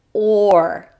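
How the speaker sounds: sustained "or", as in door; drawn-out "or" sound. Shown as a demonstration. Teacher shows what O R makes, drawn-out "or". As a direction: hold "or" as one long sound. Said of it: "O R makes the sound".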